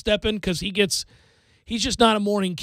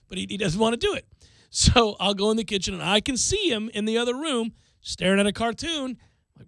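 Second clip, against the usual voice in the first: normal talking voice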